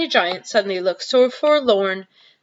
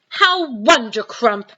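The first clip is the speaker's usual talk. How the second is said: slow, delighted exclamation; beaming cry; 3 semitones higher, slower than usual. Acted. Giant overjoyed at Sophie's praise, beaming. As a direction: beam through the word. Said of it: "cried the B F G, still beaming".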